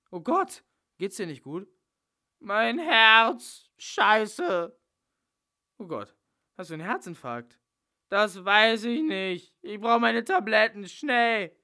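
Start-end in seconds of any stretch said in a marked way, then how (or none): 0.1-1.7 alarmed. Acted. Paul alarmed at Dracula's collapse. 2.4-4.8 strained, pained cry, louder and higher; a hammed-up heart attack; pained gasping. Dracula clutching his heart. 8.1-11.6 strained and loud, the first words slow; louder, pained urgency; pained pleading. Acted. Dracula begging for his pills.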